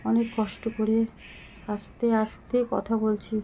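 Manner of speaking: slow, soft, weary words pushed out with effort; out of breath. Real, not acted. Ill mother telling her followers she can barely talk, slow and out of breath. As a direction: speak slowly as if every word costs breath. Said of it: "হাঁপিয়ে যাচ্ছি, কথা বলতে পারছি না".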